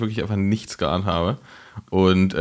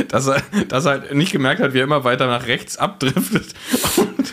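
lachend; 4 semitones higher than usual. Real, not acted. Laughing while telling funny story.

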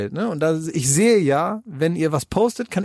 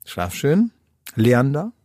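imitated parent's goodnight, sinking lower; bedtime parent; 4 semitones lower than usual. Parents putting their son to bed, mock-soothing goodnight. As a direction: tuck the child in, dropping to a low murmur. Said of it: "die Eltern den abends ins Bett bringen und sagen".

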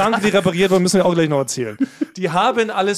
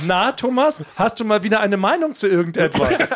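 mocking Basti; 3 semitones higher than usual. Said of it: "Satz zwei war".

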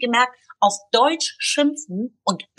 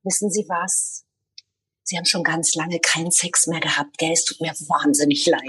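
mock polite insult; 6 semitones lower than usual. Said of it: "Und ich sag".

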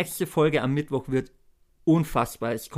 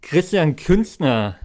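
hyped giveaway announcement; 3 semitones higher, 4 dB louder, much slower than usual. Real, not acted. Winner announced in giveaway draw.

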